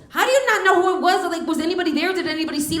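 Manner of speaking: high, exasperated mock interrogation; incredulous questioning. Mother grilling daughter about who it was, incredulous.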